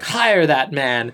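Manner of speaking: slow, low cartoon-boss order; measured, mock-imperious command; Mister Burns. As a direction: lightly imitate a boss giving a drawn-out order. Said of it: "Mister Burns is like".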